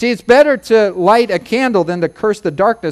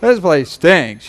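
louder, slow grumbling whine; mock complaining; 3 semitones lower, 5 dB louder, slower than usual. Imagined Jesus complaining, a loud slow whine. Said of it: "can you picture him go".

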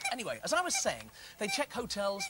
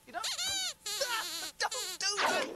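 exasperated; 10 semitones higher, slower than usual. Acted. Exasperated as puppets mess about.

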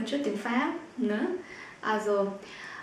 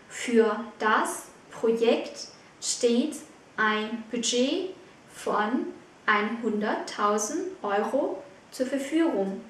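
slow; slower than usual. Shown as a demonstration. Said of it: "teacher repeats slowly".

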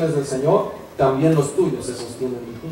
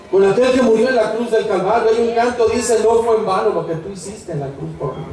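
higher-pitched fervent preaching; prédica exaltada; 5 semitones higher than usual. Real, not acted. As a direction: proclaim the cross with rising fervor. Predica exaltado sobre la cruz. (predicación ferviente, en tono alto)

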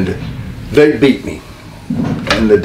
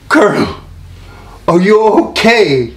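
nearly in tears; 11 semitones higher than usual. Retold or imitated. Partner to beaten manager, mock tearful concern. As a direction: plead in mock anguish. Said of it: "he's almost in tears".

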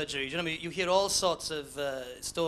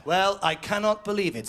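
bingo caller; 4 dB louder than usual. Acted. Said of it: "says the bingo caller".

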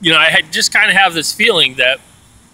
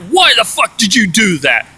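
angry demand; 5 semitones higher than usual. Retold or imitated. Roommate confronting him for turning lights on, mock anger. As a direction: get in his face, half-acted. Roommate swearing in his face.

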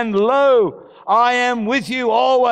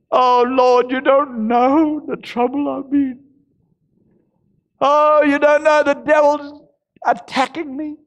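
whining self-pity; 2 semitones higher than usual. Retold or imitated. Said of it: "basting ourselves in self-pity".

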